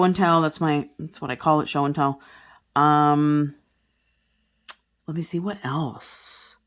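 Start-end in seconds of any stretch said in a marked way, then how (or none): none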